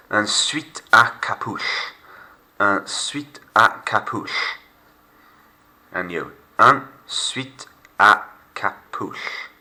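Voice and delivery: slow model. Shown as a demonstration. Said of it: "Take it slow".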